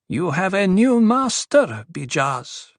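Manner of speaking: high, slow female character voice; Duri, a woman addressing the dwarf. Acted. Duri tells the dwarf of his new master, high and measured.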